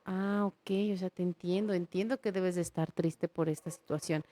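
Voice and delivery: put-on soft, gentle comforting of a child; calm the child down softly; reassuring parent.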